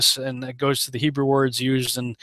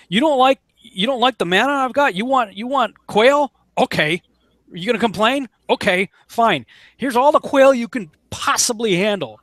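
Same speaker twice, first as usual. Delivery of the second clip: high, mock exasperated God voice; sarcastic here-you-go; voicing God; 6 semitones higher than usual. God hands complaining Israelites their quail, mock exasperated. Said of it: "You know".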